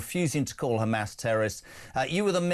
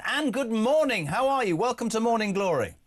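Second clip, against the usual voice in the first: put-on Welsh accent; 10 semitones higher than usual. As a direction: greet her in a lilting Welsh accent. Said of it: "I'm gonna do a Welsh accent".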